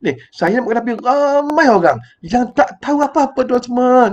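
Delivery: drawn-out, burdened explanation; slow, weighty complaint. Retold or imitated. Ustaz tells fellow teachers of ignorant students, slowly. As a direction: stretch each word, heavy-hearted. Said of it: "ustaz beritahu pada guru-guru".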